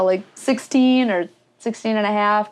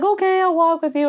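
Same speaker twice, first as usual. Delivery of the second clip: higher-pitched imitation of an older woman; lightly voiced kindly helper, pitched up; 9 semitones higher than usual. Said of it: "older woman".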